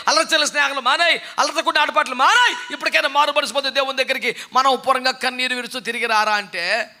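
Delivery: loud, rising call to repent; fiery preaching. Acted. Preacher shouting repentance at the congregation. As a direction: thunder the call to turn back to God.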